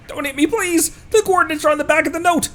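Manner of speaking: high, panicked pleading; begging. Acted. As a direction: beg for mercy in a panic. Beaten thug begging for mercy.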